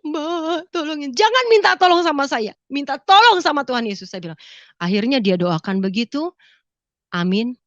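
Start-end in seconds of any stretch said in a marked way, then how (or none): 0.0-1.1 high, soft tearful begging; mock-weeping plea, pitch raised; imitated crying plea. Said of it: "Dia nangis tuh". 1.1-4.1 high-pitched insistent correction; emphatic retold rebuke, raised pitch; firm exhortation. Firm rebuke to crying relative.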